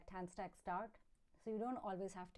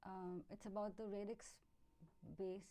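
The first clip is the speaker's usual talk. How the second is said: barely audible; 7 dB quieter than usual. Real, not acted. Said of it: "Your voice is very low".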